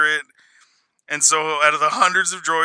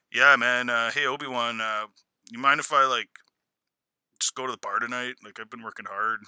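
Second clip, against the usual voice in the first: C-3PO; 5 semitones lower, 4 dB quieter than usual. Retold or imitated. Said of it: "C three P O was never like".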